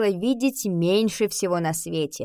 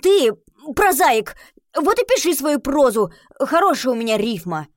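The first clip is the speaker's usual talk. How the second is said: much higher, louder, indignant yelling; offended retort; 5 semitones higher, 5 dB louder than usual. Acted. Kolya hitting back at Nika over his poem, indignant loud retort. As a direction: fire it back at her, hurt and loud.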